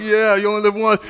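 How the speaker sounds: lightly voiced old man with a country twang; mock country old person. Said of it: "we're like".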